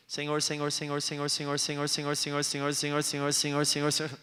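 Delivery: mock vain repetition; mock repetitive prayer. Pastor mocking vain repetition, a flat monotone drone. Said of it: "não fique repetindo".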